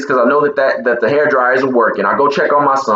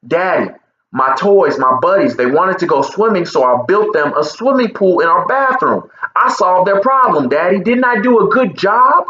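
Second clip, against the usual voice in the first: put-on child voice; 5 semitones higher than usual. Child voiced in retold story.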